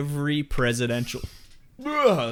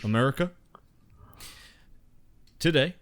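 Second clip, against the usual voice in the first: Bill Clinton impression. Shown as a demonstration. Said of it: "And your Bill Clinton".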